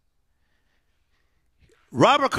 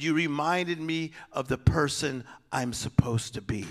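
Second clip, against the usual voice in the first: quiet retold quote; 2 semitones lower, 6 dB quieter than usual. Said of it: "she said".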